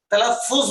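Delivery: تلفظ slow, with u: "talaf-fuz"; correct talaffuz. Shown as a demonstration. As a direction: double the f in تلفظ and end on -fuz. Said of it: "ابھی میں نے تلفظ بولا".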